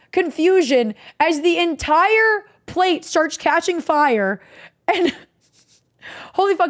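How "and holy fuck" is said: breaks into a laugh, higher and bright with glee; laughing disbelief. Real, not acted. Telling friends about flaming sherbet, laughing. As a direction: laugh through the words at the memory.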